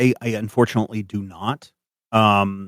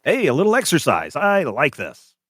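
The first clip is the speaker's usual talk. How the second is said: a touch higher, easygoing flirt; breezy unwinded charmer, lightly done; lightly voiced Ray; 3 semitones higher than usual. GM voicing Ray, jogging beside the party, lightly done.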